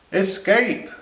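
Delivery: high, loud barked word. A narrator's reading. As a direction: bark it out like a dog. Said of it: "barked the dogs".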